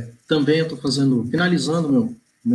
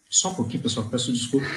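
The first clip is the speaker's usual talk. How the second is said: strained after choking; recovering from a choke; 6 dB quieter, much faster than usual. Real, not acted.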